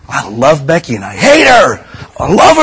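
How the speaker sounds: hammed-up emotional rant; mock emotional swing. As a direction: play a man flipping between love and hate. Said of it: "your feelings will do this and this".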